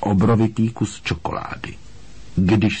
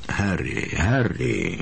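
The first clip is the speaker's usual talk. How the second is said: softer, kindly patronising smile in the voice; 3 dB quieter, slower than usual. A narrator's reading. Minister placating an upset boy, kindly. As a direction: humour the boy gently. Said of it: "vlídně se na něj usmíval".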